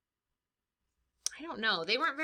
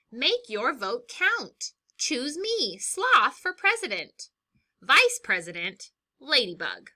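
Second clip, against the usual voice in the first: sloth's speech; 5 semitones higher, 7 dB louder than usual. Acted. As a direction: calmly reassure the voters. Sloth gives campaign speech.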